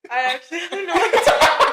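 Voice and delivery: high, helpless laughing speech; real laughing. Real, not acted. Daughter admits they planned nothing, cracking up laughing. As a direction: crack up while getting the words out. Cracking up over having no topic.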